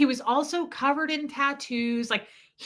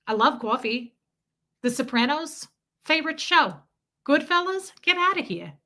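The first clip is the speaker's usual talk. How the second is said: put-on New York accent; 5 semitones higher than usual. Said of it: "talk like I'm in New York".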